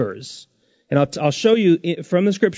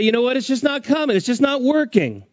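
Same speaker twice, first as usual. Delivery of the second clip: imitating a weary believer; 8 semitones higher than usual. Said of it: "And you say".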